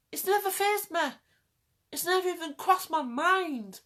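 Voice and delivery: "never" pitched high and punched; "never" said high with force; emphatic never. Real, not acted. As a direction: lean on "never" high and hard. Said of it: "so passionate".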